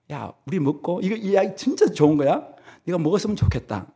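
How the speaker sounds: soft, tender invitation; gentle coaxing. Retold or imitated. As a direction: coax a child to eat kindly. Gentle God voiced. (다정하게 달래는 목소리)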